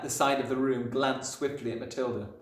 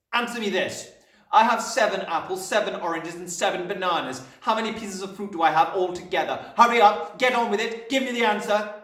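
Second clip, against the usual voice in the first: raised, hectoring interrogation; bullying Trunchbull; 8 semitones higher, 8 dB louder than usual. A narrator's reading. Headmistress demanding an answer from Wilfred, loud and impatient. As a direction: fire the sum at the child and press hard.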